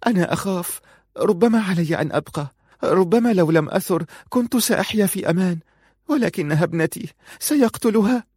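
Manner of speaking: high, gasping weepy voice; sobbing. Acted. Aziza telling Farun of the beatings, high and sobbing. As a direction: speak between sobs. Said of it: "وهي تشهق من البكاء".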